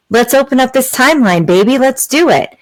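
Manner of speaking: excited. Shown as a demonstration. Cheering on manifesting a timeline.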